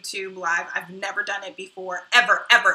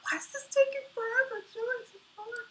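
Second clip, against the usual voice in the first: higher whispered sigh of frustration; exasperated whisper; 4 dB quieter, faster than usual. Real, not acted. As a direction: sigh it out, fed up. Computer slow during live stream.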